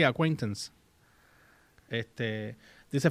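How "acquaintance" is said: "acquaintance" said as "a-KWEN-tens"; demonstrated pronunciation. Shown as a demonstration. Confirming the word for co-host, "acquaintance" pronounced "a-KWEN-tens". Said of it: "pero se pronuncia así".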